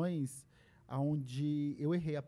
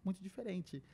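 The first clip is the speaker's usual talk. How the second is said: surprised; 5 semitones higher than usual. Retold or imitated.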